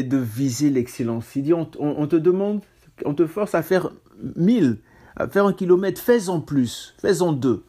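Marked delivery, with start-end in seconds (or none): 1.5-7.6 raised, higher preaching voice; fervent preacher. Acted. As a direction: drive the point home. Preaching at full force.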